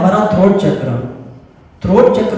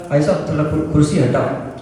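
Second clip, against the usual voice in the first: polite request; 2 semitones lower than usual. Shown as a demonstration. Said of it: "दोनों same शब्द है कुर्सी, लेकिन मैंने बोला अलग तरीके से".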